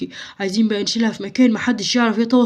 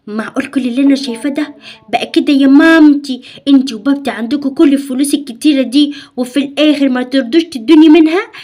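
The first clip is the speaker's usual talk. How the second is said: indignant outrage; 3 semitones higher, 6 dB louder than usual. Acted. Girl indignant at parents.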